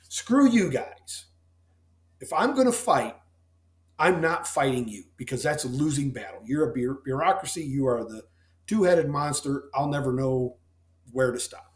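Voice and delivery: mock-defiant yell at the bureaucracy; defiant outburst. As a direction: shout down the co-op in defiance. Defiant self-quote against the co-op.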